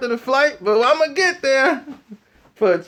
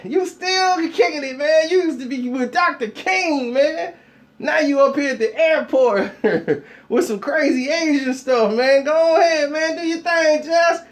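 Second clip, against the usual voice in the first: excited hype; 5 semitones higher than usual. Retold or imitated. Hyping up Jesse Jackson.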